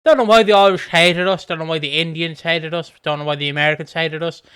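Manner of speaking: loud, faux-innocent, speeding up; mock innocent British teacher. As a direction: pretend the empire was lovely. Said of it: "it's like".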